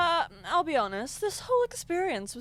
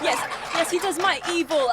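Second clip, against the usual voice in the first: usual speaking voice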